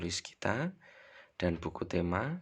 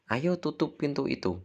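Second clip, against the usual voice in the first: firm command; 8 semitones higher than usual. Shown as a demonstration. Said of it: "contohnya mungkin".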